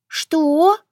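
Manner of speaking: sharp high shocked what; outraged disbelief in one word; indignant what. A narrator's reading. Girl stunned by her sister's blunt words, outraged.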